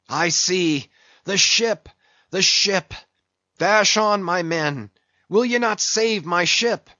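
urgent sea captain calling over the waves; desperate Ahab. Acted. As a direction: drive the crew on, pleading at the last. Ahab urges on his crew.

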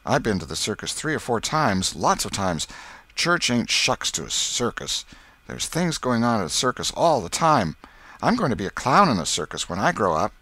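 lightly voiced boasting boy; boastful boy Tom. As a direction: brag like an eager schoolboy. Tom boasts about the circus.

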